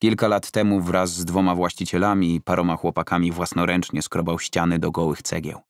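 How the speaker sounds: ordinary delivery, nothing marked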